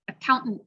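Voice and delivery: "Accountant" with a throat stop and an unreleased final T; glottal then held T. Shown as a demonstration. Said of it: "glottal stop and then a held T".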